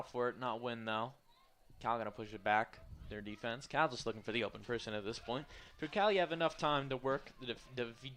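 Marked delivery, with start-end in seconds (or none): 5.8-8.1 tripping over the words; tongue-tied stumble. Real, not acted. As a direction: stumble and cut off mid-word. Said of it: "having a bit of a spell there".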